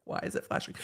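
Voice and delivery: hushed worried question; whisper. Retold or imitated. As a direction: whisper it in alarm. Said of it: "it would be like".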